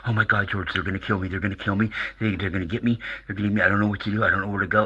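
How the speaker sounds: mildly panicked mock caller; David Wilcock. Caller telling the radio host he's in danger, mild mock freak-out. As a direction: imitate a freaked-out caller pleading, pitch only slightly up. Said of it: "David Wilcock is freaking out".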